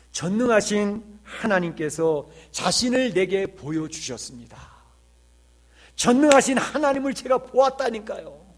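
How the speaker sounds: slow, awed testimony swelling into a high, loud cry; Handel, tearfully overwhelmed. Retold or imitated. Composer tells his visitor of seeing God, acted with swelling fervour. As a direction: build from halting wonder to fervent insistence. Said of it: "눈물을 흘리면서".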